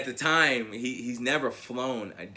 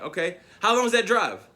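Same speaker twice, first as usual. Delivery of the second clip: naive grandfather; 8 semitones higher, 6 dB louder than usual. Retold or imitated.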